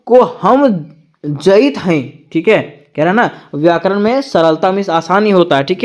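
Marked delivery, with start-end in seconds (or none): 1.2-2.3 Awadhi speech. Shown as a demonstration. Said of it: "व्याकरण में सरलता, जैसे मैं जाता हूँ को हम".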